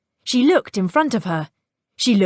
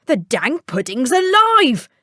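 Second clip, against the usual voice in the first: spooked tinker; 5 semitones higher, 3 dB louder than usual. Acted. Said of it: "said the tinker".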